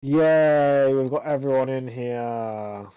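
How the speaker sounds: mock cheer sagging into deadpan; sarcastic. Real, not acted. Host opens interviews after a dull race, sarcastic. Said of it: "Can you tell I'm being sarcastic".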